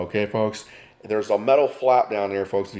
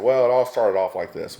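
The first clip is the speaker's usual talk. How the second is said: storyteller opening; 2 semitones higher, 5 dB louder than usual. Retold or imitated. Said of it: "and he said".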